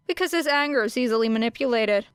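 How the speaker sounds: simply. Acted. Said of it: "she said simply".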